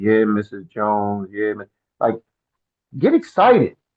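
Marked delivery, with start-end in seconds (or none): 0.0-1.7 flat, dull monotone, much lower pitch. A speaker coaching presenters shows what not to do, in a boring monotone. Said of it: "don't just be monotone".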